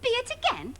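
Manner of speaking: put-on high, bright kids' TV presenter voice; sing-song presenter. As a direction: talk down to the children like a TV host.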